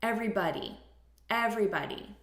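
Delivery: "everybody" said clearly for repeating; model pronunciation. Shown as a demonstration. Teacher has learners repeat, "everybody" as a clear model. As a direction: model "everybody" with the reduced ending. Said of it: "So repeat".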